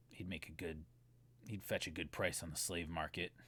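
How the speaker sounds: low, quiet, cold threat; menacing thug. Acted. The thug telling Jonathan to pay up for his brother, low and cold. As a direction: lean in and price him like cargo.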